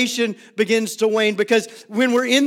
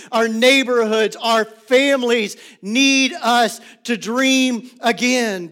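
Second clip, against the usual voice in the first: preaching at full force; 2 semitones higher than usual. Acted. Preaching build.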